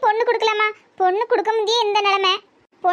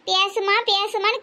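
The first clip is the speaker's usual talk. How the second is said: mock pleading; slower than usual. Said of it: "கெஞ்சிட்டு இருக்காவ".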